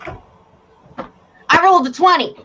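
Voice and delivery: slow, high, smug reveal; smug gloat. Acted. Game master gloats about his roll, slow and smug. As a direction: savor every word.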